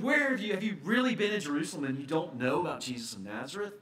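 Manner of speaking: incredulous, quickening question; a touch of astonished disbelief; mild disbelief. Acted. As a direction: ask as if you can't believe it. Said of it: "They can't believe".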